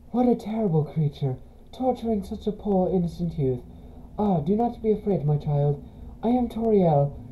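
put-on soft, kindly old-fashioned goat mother; lightly voiced caretaker; gentle motherly Toriel.

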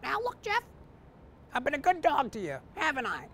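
dog asks his owner for a favor; talking dog. Acted. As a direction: plead like a loyal old pup. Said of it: "Patches turns to Jeff".

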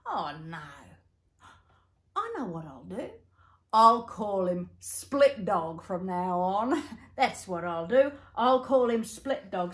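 lightly voiced old bushman; a hint of a pleased old man. Old Joe decides new name.

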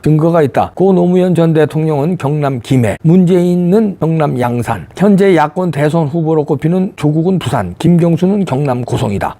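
steady, brisk news-read delivery; column read aloud. Acted. Reading a newspaper column to viewers, news-read style. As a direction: read the op-ed like a newscaster.

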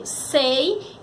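"sei" slow, as a separate syllable; sílaba isolada. Shown as a demonstration. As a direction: set "sei" apart. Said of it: "no terceiro". ("sei" devagar, isolado)

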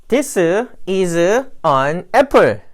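Korean accent, extra vowels after "This" and "is"; wrong Korean-accented English. Shown as a demonstration. Jay gives a faulty example for correction, heavy Korean accent. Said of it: "제가 this와 is 다 잘못했네요".

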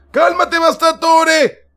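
calming companion. Acted. Sidekick Arex calming frustrated Bastatore, slow and high. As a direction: slowly coax Bastatore to calm down.

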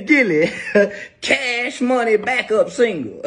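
giggling mock announcement; laughing at his own mock gift; laughing through it. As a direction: laugh while saying it. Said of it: "this what my kids give me".

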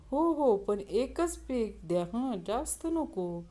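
put-on slow, considered drunk reply; thinking it over. Drunk patient answers the doctor after a thought, slow and considered. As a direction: draw it out as if mulling it over. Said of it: "जरा विचार करून".

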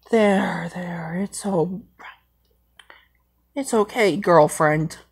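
soft slow there-there whisper; comforting whisper. Pretend. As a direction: hush her gently, voiceless. Simba comforts crying Nala.

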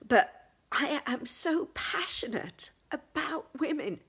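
choked-up, tearful whisper; fighting back real tears; blubbering. Real, not acted. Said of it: "sorry, I thought I'd cleared all this".

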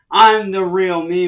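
loud, slow, every word pressed out; angry shout. Real, not acted. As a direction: shout down the impostors. Angry rant at impersonators.

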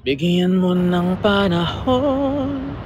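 slow, drawn-out quoted saying; lightly voiced wise-elder quote; Aling Maliit. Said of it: "sabi na Aling Maliit". (dahan-dahang banggit ng kasabihan)

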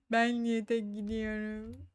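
slow, dragged-out complaint; protesting whine. Real, not acted. Player complaining about going alone, whiny. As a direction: stretch the question into a grumble.

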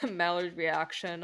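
giggling through the words; laughing. Real, not acted. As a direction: laugh while saying it. Laughing at the mispronunciation.

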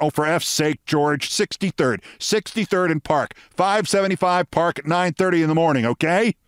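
exasperated, climbing in pitch; Edward Bennett Williams. Retold or imitated. Williams repeating the address to George, fed up. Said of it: "Williams now swore".

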